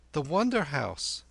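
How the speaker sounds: put-on high, confident boy; high-pitched youngster naming a place; boy Kim. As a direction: announce it in a high boy's voice. Kim informs the old man.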